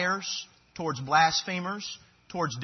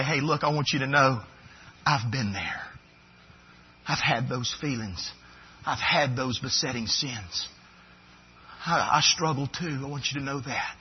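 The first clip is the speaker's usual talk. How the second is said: lowered, confiding reassurance; loving, kind; 3 semitones lower than usual. Acted. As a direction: come alongside gently, as one who struggles too. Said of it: "show love and kindness and say".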